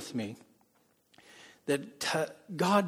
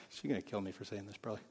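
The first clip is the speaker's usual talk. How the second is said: soft aside; 5 semitones lower, 12 dB quieter, faster than usual. Real, not acted. Aside about his wife.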